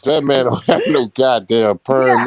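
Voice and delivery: loud, low-pitched insistence; emphatic denial. Real, not acted. Man disputes a claim about someone's perm, emphatic. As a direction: shut the claim down forcefully.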